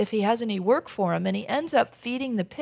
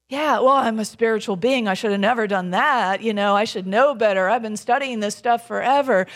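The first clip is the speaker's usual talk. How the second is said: louder mimicked self-scolding; mock self-reproach; 4 dB louder than usual. Spiritual seeker punishing themselves, mock self-reproach. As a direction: berate yourself in a mock inner voice.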